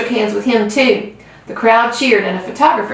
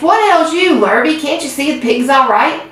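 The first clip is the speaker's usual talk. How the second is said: bellowing; 5 semitones higher than usual. Acted. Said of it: "bellowed Mister Zuckerman".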